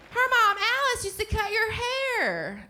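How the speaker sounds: high-pitched, drawn-out prompting; insistent mom. Retold or imitated. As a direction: imitate a mother pressing your memory, voice way up. Mother keeps prompting his memory.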